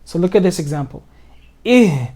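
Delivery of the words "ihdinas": Ihdinas run together without the alif; skipped alif. Shown as a demonstration. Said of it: "I completely skipped this alif".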